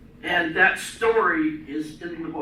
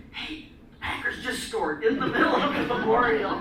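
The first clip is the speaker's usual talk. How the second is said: retelling a husband's whisper with a laugh; laughing quote; 4 semitones higher than usual. Retold or imitated. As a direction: chuckle through the remembered nudge. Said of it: "he's like".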